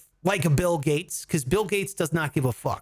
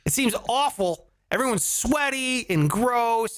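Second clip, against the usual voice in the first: ordinary delivery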